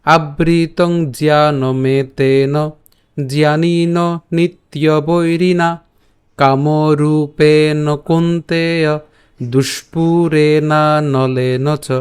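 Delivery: very slow, even Sanskrit chant; full shloka read out slowly for the class; slow verse recitation. Shown as a demonstration. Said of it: "আমি আবার বলছি".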